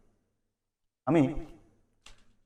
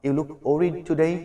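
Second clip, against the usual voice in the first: slow example; much slower than usual. Shown as a demonstration. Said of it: "example sentence".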